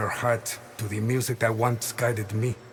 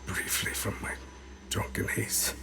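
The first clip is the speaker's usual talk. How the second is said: voiceless, hushed confession; whisper; 7 dB quieter than usual. Acted. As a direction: drift into a whisper, as if to himself. Recalling being shaken from drunkenness.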